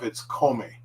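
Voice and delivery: kome said KOH-meh with a clear K; kome with a hard K. Shown as a demonstration. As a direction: start kome with a crisp K. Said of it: "if that gome is by itself".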